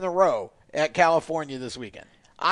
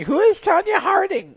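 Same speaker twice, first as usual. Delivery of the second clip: confused listener; 10 semitones higher than usual. Retold or imitated. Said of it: "half our audience going".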